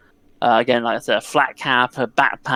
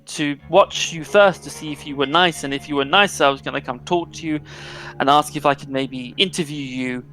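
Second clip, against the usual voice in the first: flustered, a little higher, slowing in places; nervous young reporter; 3 semitones higher than usual. Acted. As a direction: babble eagerly, a shy girl explaining herself. GM voices Jenny the reporter.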